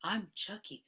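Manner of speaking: high, slow talking-doll greeting; drawn-out, high doll voice asking to play; Chucky doll voice. Retold or imitated. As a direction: sound like a sweet toy doll. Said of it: "starts to sound like the doll again".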